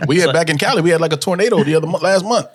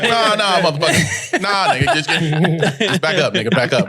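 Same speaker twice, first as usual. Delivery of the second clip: annoyed back off. Retold or imitated. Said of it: "cock your head to the side like".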